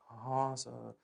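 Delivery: low, very soft student's reply; meek student. Acted. Student answering the teacher's question, meekly. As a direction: answer like a timid pupil.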